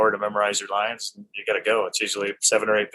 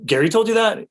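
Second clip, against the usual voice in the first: incredulous question; 11 semitones higher, 5 dB louder than usual. Retold or imitated. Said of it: "He goes".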